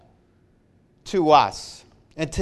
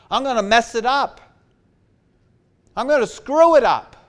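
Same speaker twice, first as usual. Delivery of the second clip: fervent preaching; 5 semitones higher, 3 dB louder than usual. Acted. Preacher confessing his own failings.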